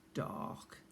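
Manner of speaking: whispered single dramatic word. A narrator's reading. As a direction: breathe the word out. Dramatic storytelling pause.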